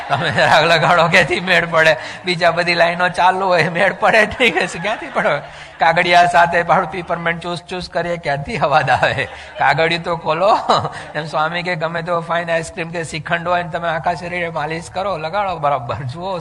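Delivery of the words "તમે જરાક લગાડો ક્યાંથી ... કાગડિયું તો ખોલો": loud, laughing punchlines to the crowd; preacher cracking up the audience; laughing loud joking. Real, not acted. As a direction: belt it out through laughter. Preacher jokes loudly with laughter.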